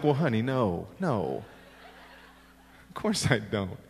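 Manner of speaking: reassuring father. Retold or imitated. Father reassuring daughter in retelling.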